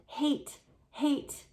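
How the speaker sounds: high, repeated in fear; frightened. Acted. Terrified Jane repeating it to Alexander, high and haunted. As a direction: stammer it out, haunted.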